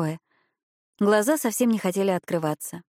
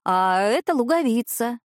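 rolled throaty r like a Frenchman; cat speaking with French-style r and purrs; 5 semitones higher than usual. Acted. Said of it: "грассируя на французский манер". (грассирующее французское «р»)

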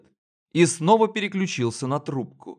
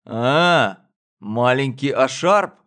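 smiling; 4 dB louder, slower than usual. Acted. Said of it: "улыбнулся мужчина".

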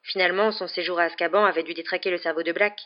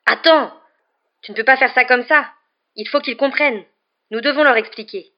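urgent, high and loud pleading; loud, insistent protest; yelling; 6 semitones higher, 8 dB louder than usual. A narrator's reading. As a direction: shout to hold someone back. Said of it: "hurla Lupin".

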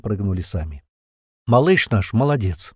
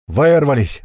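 loud, relieved shout; triumphant yell; 4 semitones higher, 6 dB louder, slower than usual. A narrator's reading. Someone on the radio yelling with relief, loud. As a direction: yell out the escape. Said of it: "заорал кто-то в рацию".

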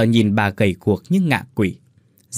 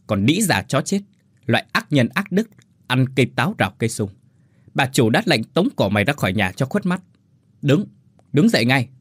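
mock cursing; 3 semitones higher than usual. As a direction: spit out the insults with contempt. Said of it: "cười hành hạch rồi chửi rủa". (chửi rủa khinh miệt)

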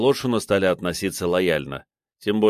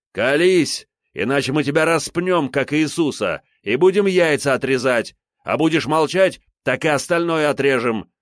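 threatening shout, louder and higher; convincing shouting; 7 semitones higher, 4 dB louder than usual. A narrator's reading. Captain shakes the suspect and shouts threats. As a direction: bellow threats to break him. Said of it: "Комов кричал очень убедительно".

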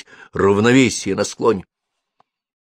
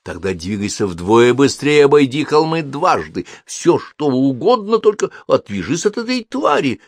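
shouting; 6 semitones higher, 3 dB louder than usual. A narrator's reading. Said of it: "крикнула Софи".

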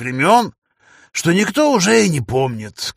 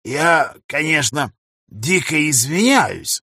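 put-on slurred drunk speech. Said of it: "заплетающимся языком произнёс он".

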